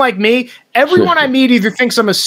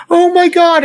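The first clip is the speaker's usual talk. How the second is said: high, gushing recognition; mock excited greeting; 8 semitones higher than usual. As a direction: greet a supposed long-lost friend, pitched up. Acting out stranger greeting him excitedly.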